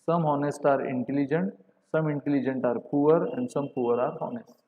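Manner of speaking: slow, spaced-out dictation of the statements. Shown as a demonstration. Teacher dictating to students, slow and deliberate. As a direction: spell it out slowly for the class. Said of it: "this is your right answer".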